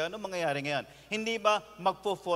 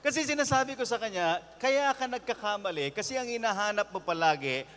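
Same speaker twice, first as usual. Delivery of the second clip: ordinary talk, nothing marked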